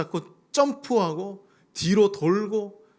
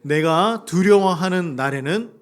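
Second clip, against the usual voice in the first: loud reading; 7 dB louder, slower than usual. Real, not acted. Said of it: "큰 목소리로 읽어봅시다".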